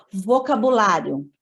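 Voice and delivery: unvoiced whisper of Vocabulário. Real, not acted. Teacher whispering the new topic to the class. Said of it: "topic heading whispered".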